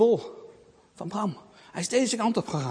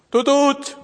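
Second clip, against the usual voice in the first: higher, louder toot toot like a horn; imitated car horn; 7 semitones higher, 9 dB louder than usual. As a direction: beep the horn playfully.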